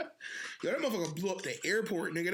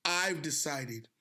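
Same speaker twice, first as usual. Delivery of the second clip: drawn-out quote; 3 semitones lower, much slower than usual. Retold or imitated. Retold dictator's opening line.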